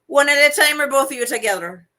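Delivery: loud, quick put-on accent; lightly hammed-up accented comeback. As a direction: fire back in a movie accent. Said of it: "Thank you for doing the accent".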